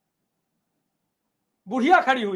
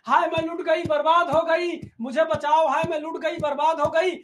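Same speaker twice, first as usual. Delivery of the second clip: mock wailing cry; 4 semitones higher than usual. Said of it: "अब बुढ़िया चिल्ला रही है".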